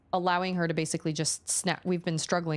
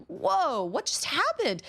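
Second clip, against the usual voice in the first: mock surprise; 11 semitones higher, slower than usual. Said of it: "all of a sudden I'm like".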